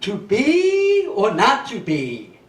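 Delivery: slow, grand theatrical recital; mock Shakespearean. Quoting Shakespeare class, slow grand theatrical recital. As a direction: intone it like a stage actor. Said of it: "they're like".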